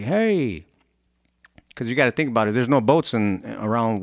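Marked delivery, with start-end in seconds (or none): 0.0-0.7 mock yell. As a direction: imitate hailing someone with a drawn-out hey. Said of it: "yells out at him".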